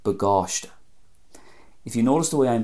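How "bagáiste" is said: "bagáiste" as buh-GAWSH-tuh; stress toward the end. Shown as a demonstration. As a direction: stress the long second syllable of "bagáiste". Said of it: "stress on the end".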